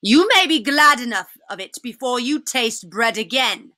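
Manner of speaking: cold witch voice. Acted. Witch threatens Edmund.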